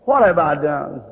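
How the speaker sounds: a broken father begging God; anguished prayer. Retold or imitated. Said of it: "I knelt down, I said".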